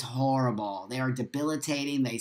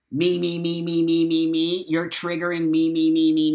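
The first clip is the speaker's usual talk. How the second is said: childish mocking chant, building louder; mock whiny me-me-me; 3 dB louder than usual. Streamer mocking offended commenters, whiny mock chant. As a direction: mimic a self-absorbed whiner, needling.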